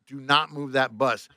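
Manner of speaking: slow, deliberate boss's order; firm order. Retold or imitated. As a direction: lay down each word slowly. Boss orders driver over phone.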